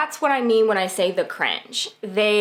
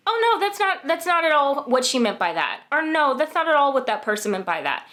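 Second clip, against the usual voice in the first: higher-pitched imitation of a man brushing it off; retold dismissive denial; 5 semitones higher than usual. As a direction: wave the concern away, mimicking his excuse. Voicing the man's dismissive excuse.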